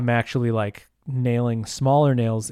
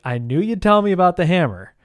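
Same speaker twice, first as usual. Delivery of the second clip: exasperated; 5 semitones higher, 5 dB louder than usual. Retold or imitated. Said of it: "And I'm like".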